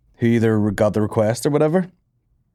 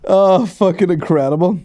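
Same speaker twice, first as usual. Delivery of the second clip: amazed delight; 8 semitones higher, 4 dB louder than usual. Real, not acted. Reacting to the video.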